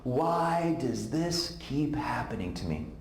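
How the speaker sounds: very slow, tearful repeated plea; mild imitated sob, drawn out; sobbing. Friend crying to Ted on the phone, slow tearful. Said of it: "she kept repeating this".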